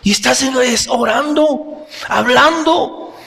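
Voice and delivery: amazed jailer. Acted. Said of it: "debió preguntarse".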